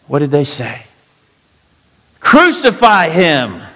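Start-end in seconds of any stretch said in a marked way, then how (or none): 2.2-3.6 crowd's cry. Acted. Preacher voices crowd's cry.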